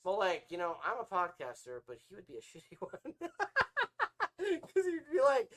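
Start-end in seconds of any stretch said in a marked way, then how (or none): 2.4-5.5 slow, laughing lead-in. Real, not acted. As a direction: laugh through it slowly.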